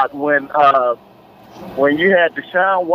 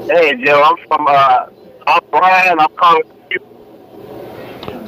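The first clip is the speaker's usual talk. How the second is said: choppy, breaking-up phone line; radio breaking up; 2 semitones lower, 3 dB louder, slower than usual. Real, not acted. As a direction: caller cutting in and out. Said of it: "Sounds like you're breaking up on me".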